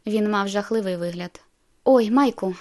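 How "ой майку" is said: louder startled cry of a name; exclaiming. Acted. Bella seeing sick Mike, a louder alarmed cry. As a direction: call out in alarm. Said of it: "вигукнула я".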